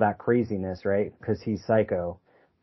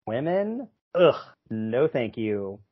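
mock disgust at women; slower than usual. Mocking old attitudes to women.

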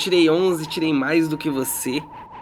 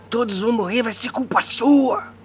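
much higher, slow threatening otherworldly voice; menacing sword; 9 semitones higher, 4 dB louder than usual. Acted. The sword warning Shao that everyone will die, high and slow. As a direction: menace him slowly as the cursed blade.

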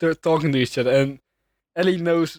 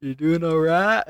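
mock British greeting; bad British accent. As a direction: put on a poor British accent. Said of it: "really bad British accent".

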